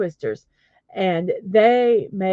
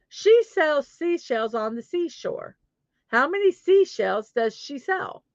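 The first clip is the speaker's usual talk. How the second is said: careful tongue twister; 5 semitones higher than usual. Shown as a demonstration. First, slower take of tongue twister.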